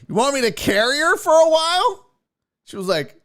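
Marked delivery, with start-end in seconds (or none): 0.1-2.1 put-on high, folksy old man voice; creepy dad voice. Dad offering the mother help, high folksy voice. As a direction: play the pushy helpful dad. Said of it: "He's like".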